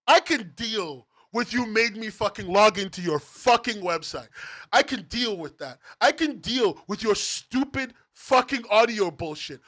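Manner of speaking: heated rant with punched swear words; angry. Real, not acted. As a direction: rant it through, hammering the key words. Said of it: "sorry for getting so angry".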